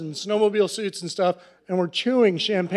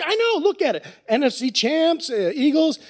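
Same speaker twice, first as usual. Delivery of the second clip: put-on proud drunk; 7 semitones higher than usual. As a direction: show off the shirt, plastered. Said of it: "I'm all drunk".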